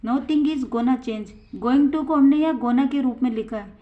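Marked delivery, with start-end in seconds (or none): 0.0-1.3 slow, clear example for students; teacher reading it out slowly to the class; slow model sentence. Shown as a demonstration. Teacher models the sentence, slow and clear. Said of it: "और तीसरा example".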